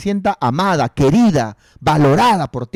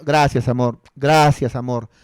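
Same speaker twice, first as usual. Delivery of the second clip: grateful; 4 semitones lower than usual. Retold or imitated. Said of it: "yo le digo a ella".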